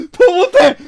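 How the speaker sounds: high whiny yell; crying shout. Real, not acted. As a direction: cry out in protest. Outraged at game. (울먹이며 높이 외침)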